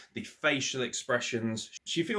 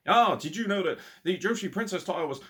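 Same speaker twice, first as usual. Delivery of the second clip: mocking Excalibur; 7 semitones higher, 4 dB louder than usual. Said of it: "this is what Excalibur's getting like".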